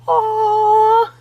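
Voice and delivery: high, loud, drawn-out aww; imitated cooing. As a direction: coo over kittens on the viewer's behalf. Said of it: "I know you're like".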